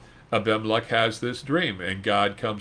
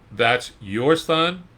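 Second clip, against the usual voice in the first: incredulous neighbors; slower than usual. Retold or imitated. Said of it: "can you hear these folks".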